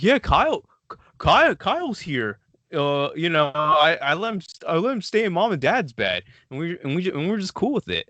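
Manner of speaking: high, eager retelling of the brother; lightly voiced brother, upbeat and high; imitating brother. Retelling the brother's excuse about Kyle, high eager mimicry.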